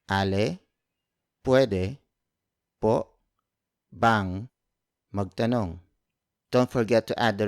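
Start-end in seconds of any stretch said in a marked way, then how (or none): 0.1-5.8 each word of "Ale, pwede po bang magtanong?" said separately with pauses. Shown as a demonstration. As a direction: pause after every word, slowly. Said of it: "So word for word".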